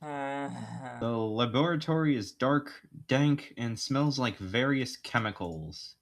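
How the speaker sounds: slow, deliberate scene setting; game narration. Acted. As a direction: set the scene unhurriedly.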